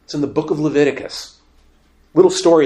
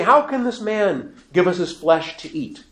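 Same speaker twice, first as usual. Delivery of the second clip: higher-pitched indignant question; annoyed crowd; 6 semitones higher than usual. Acted. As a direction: challenge it with mild exasperation. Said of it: "They became annoyed".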